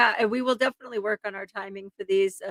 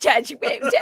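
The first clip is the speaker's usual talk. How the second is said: playful mimicry of a courtroom plea; Sarah Boone; 4 semitones higher, 5 dB louder than usual. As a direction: echo the impression for laughs. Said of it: "have a little Sarah Boone".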